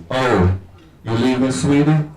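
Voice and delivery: lightly hoarse mom voice; a hint of morning hoarseness. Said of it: "Mom asked with the hoarseness".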